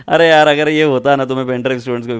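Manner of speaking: fast, laughing through the words; laughing while talking. Real, not acted. Teacher joking with students, talking through laughter. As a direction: keep laughing as you speak.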